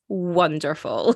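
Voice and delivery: slow, drawn-out West Country Wonderful; lightly voiced West Country landlady; West Country accent. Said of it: "I might slip into a West Country accent".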